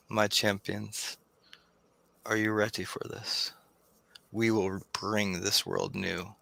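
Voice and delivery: a hint of a solemn prophet of fire; grandiose fire lord. Fire lord addresses champions.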